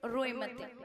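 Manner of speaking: soothing mother. Retold or imitated. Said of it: "मैया बोली".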